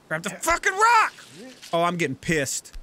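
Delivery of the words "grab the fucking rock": higher, urgent shout at the screen; frustrated yell. Real, not acted. Gamer yelling at his climber to grab the rock. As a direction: bark the order at the climber.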